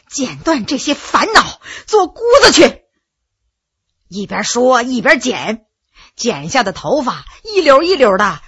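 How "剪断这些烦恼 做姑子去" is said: crying. Acted. Empress vowing to become a nun, sobbing in anguish. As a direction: let the tears break through. Empress cutting hair, breaking down.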